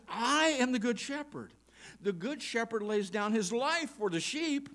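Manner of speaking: ringing declaration of the verse; proclaimed loudly. Shown as a demonstration. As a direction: proclaim it with full voice. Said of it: "He says".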